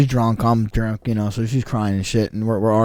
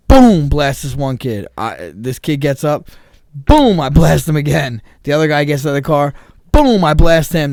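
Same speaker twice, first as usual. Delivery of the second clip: punchy fight narration; 4 semitones higher, 5 dB louder than usual. Retold or imitated. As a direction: hammer each boom out. Dramatic fight retelling with impacts.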